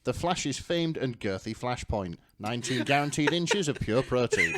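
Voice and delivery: hammed-up smut narration; dramatic fic reading. Reading the fic aloud to friends, mock-dramatic narration. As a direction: read it like a breathless romance novel.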